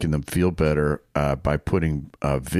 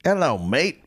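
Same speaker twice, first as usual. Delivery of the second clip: put-on a weak try at an Australian accent, higher; a hint of Australian on the greeting; 8 semitones higher than usual. Asked by co-host to do Australian, a poor Australian accent. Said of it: "Okay, that was terrible".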